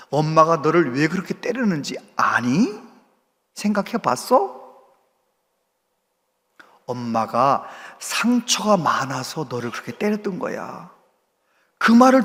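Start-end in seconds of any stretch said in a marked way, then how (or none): 0.1-10.9 soft, half-whispered inner voice; God speaking within. Retold or imitated. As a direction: gently speak into his heart, almost a whisper. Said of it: "마음속에 말씀하시더래요".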